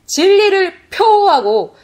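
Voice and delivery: loud, high, stretched-out proclamation; emphatic preaching shout. Retold or imitated. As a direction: proclaim it forcefully, drawing out the words. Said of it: "으르렁거리는 그 소리보다".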